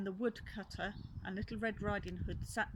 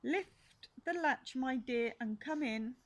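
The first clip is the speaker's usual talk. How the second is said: fake granny voice; 4 semitones higher, 5 dB louder than usual. Wolf playing Granny.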